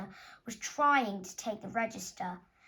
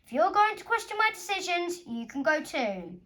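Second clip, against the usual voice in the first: higher, louder cold threat; menacing teacher; 6 semitones higher, 5 dB louder than usual. Acted. Teacher threatening Amelia for questioning him, loud and cold. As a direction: warn her off, icily.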